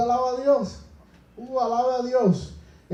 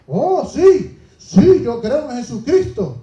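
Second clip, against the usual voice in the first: careless believer; 9 dB louder, slower than usual. Retold or imitated. Voicing a casual believer.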